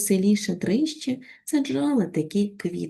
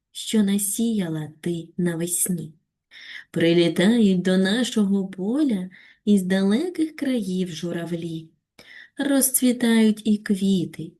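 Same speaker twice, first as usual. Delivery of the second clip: slow, tender recitation of a poem; expressive poem reading. Shown as a demonstration. Teacher reads the poem aloud to pupils, slow and heartfelt. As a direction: read each line slowly and lovingly. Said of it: "виразно прочитати вірш".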